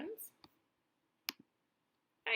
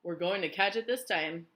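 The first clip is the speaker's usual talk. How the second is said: high, loud panicked cry for help; panicked cries; 3 semitones higher, 7 dB louder, slower than usual. A narrator's reading. Travelers facing the storm cloud, panicked loud cries. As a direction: beg for mercy in panic. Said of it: "they said".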